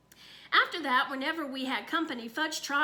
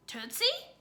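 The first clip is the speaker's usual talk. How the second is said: evasive innocence; 10 semitones higher than usual. Acted. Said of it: "sounding a lot like me when I'm trying to get out of answering".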